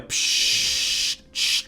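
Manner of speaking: imitated needle hiss. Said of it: "Shh, really slow".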